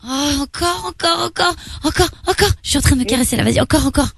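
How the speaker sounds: high, swooning, repeated pleading; mock aroused excitement. Woman egging on the accent act, high excited moaning.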